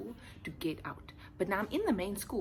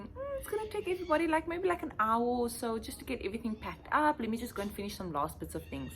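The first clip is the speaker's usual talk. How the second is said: inner thoughts; 4 semitones higher than usual. Retold or imitated. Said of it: "I'm thinking".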